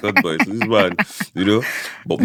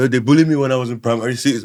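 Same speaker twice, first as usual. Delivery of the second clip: mock sob story; 5 semitones higher, 3 dB louder, faster than usual. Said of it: "I go".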